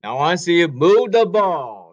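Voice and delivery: loud shout across the court; coach shout. Real, not acted. Coach yelling at the players to move the ball, loud. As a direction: bellow the order to the players.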